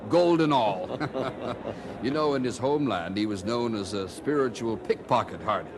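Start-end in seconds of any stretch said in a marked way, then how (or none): 0.1-1.5 amused at giving everything away; laughing. Acted. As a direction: chuckle at your own foolishness. Laughs at his own generosity.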